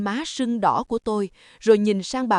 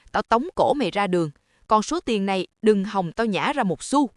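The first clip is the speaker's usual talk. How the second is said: threatening. Acted. Mother-in-law threatens after slap.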